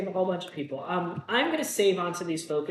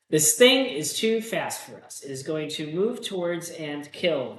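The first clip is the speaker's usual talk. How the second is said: louder, slow ominous reading; dramatic card read; 4 dB louder, slower than usual. Acted. Player reading a terror card aloud, slow and ominous.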